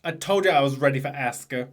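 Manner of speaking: wrestler impression in a rough attempt at a Boston accent; mock Boston accent. Mimicking Sasha for a co-host, badly faked Boston accent. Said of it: "She keeps saying".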